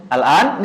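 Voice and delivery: "Al-an" lifted at the end like a question; question intonation only. Shown as a demonstration. Teacher mimicking changing only the intonation in Arabic, rising question tune. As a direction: turn "Al-an" into a question by tune alone. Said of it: "Ya udah diubah aja intonasinya".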